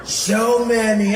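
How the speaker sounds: drawn-out presidential caricature, held back from the peak; Donald Trump. Acted. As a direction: stretch the words out on a level pitch. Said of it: "it was low".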